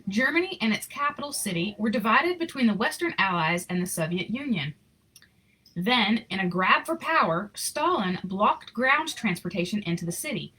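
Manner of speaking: even, expressive read-aloud storytelling; story narration. Acted. Reading a Christmas picture book to children, storytelling voice. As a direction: tell the story to the kids gently.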